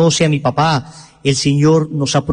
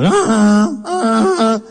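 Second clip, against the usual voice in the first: mock broken horn; 6 semitones higher, much slower than usual. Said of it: "Sonaba como un perro disfónico".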